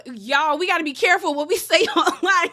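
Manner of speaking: high, loud, laughing through the warning; giggling while telling viewers to be careful. Real, not acted. Telling her viewers to be careful online, laughing.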